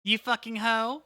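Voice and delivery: hammed-up villain challenge, drawn out; Dio. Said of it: "Dio reference".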